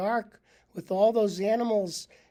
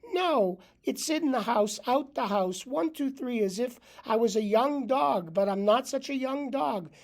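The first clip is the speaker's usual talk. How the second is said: put-on kvetching old dog; 3 semitones higher, 4 dB louder than usual. The dog complains to his owner, lightly voiced kvetching. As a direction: grumble out every complaint like an aching old dog. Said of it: "said the dog".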